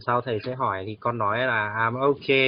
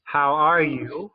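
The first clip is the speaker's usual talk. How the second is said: slow and high, stretched like a prompt; slow, drawn-out question; 5 semitones higher, 4 dB louder, much slower than usual. Shown as a demonstration. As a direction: drag out the question for a beginner. Teacher asks quiz question slowly.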